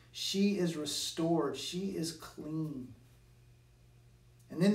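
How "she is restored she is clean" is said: declaring. Retold or imitated. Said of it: "he declares before all the crowd".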